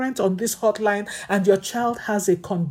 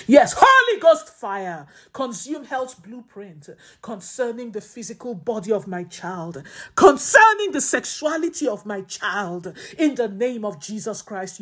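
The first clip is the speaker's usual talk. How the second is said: fervent prayer. Acted.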